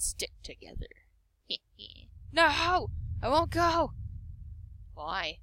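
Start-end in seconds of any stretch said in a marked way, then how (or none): 2.3-3.9 put-on higher, petulant girl's refusal; girl refusing. Anne refusing to leave the chapel, higher and defiant. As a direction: stamp your foot like a stubborn girl.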